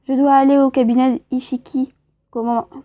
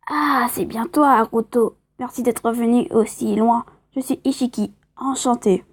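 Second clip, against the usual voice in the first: lightly voiced old man; a hint of an elderly doctor. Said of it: "un peu une voix de vieux".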